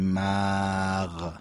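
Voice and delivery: مغ with the short a pulled long; stretched fatha. Shown as a demonstration. Teacher warns against a wrong drawn vowel. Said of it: "نباید بگیم".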